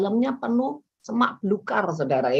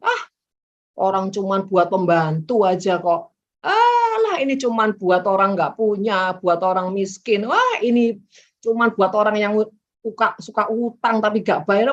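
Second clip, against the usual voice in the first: scornful dismissal; 4 dB louder than usual. Retold or imitated. Mocking people who look down on others.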